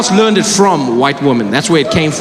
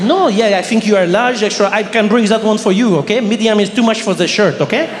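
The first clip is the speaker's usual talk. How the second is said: put-on lightly pitched-up French accent; French-accented salesman, politely dismissive; French shop assistant; 4 semitones higher than usual. Salesman turning down a customer's size, French accent.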